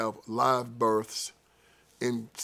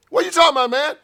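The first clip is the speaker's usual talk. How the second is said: high, loud, stunned protest; indignant outburst; 8 dB louder, faster than usual. Acted. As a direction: blurt it out, shocked at the charge. Outraged suspect in retold arrest.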